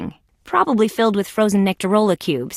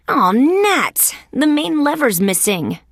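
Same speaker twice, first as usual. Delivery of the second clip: higher-pitched frustrated exclamation; dismayed outburst, pitched up; exasperated; 5 semitones higher, slower than usual. Acted. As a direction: curse your luck, mildly. Finds the lever gone.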